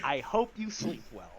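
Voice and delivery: low, soft, even parting line; understated reply. Acted. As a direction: deliver it quietly and low. Odd reply later taken as threat.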